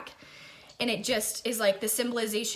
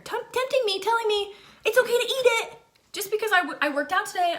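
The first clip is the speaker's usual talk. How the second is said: laughing; 12 semitones higher, 4 dB louder than usual. Real, not acted. Laughing at cookie temptation.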